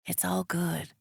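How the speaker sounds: whispering. A narrator's reading. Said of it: "Vic whispers into my hair".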